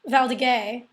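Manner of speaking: Val d'Agay ending in a "gay" sound; former mispronunciation. Shown as a demonstration. Host admitting how she was pronouncing it, ending in "gay". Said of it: "was pronouncing".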